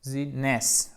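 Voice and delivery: "business" broken up, first vowel like French é; first i of "business" coloured like é. Shown as a demonstration. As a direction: say "business" as bé-zness, in pieces. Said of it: "comme un e accent aigu".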